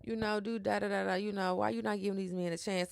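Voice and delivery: a teasing take on a prying therapist; mock therapist questioning. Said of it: "she was like".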